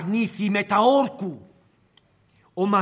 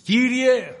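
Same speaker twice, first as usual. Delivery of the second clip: a raised cry of «Κύριε»; «Κύριε» lifted in a pleading call; calling out to the Lord. Pretend. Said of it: "χρειάζεται να φωνάξουμε".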